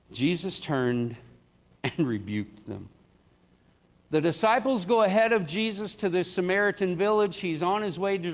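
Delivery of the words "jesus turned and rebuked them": laughing retake. Shown as a demonstration. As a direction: try it again and chuckle through it.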